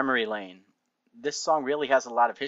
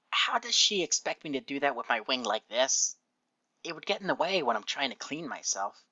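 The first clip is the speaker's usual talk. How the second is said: lightly voiced cranky pony, a bit higher; hint of a put-upon character voice; Rainbow's complaint; 4 semitones higher than usual. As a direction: voice her grumbling objection, slightly raised in pitch.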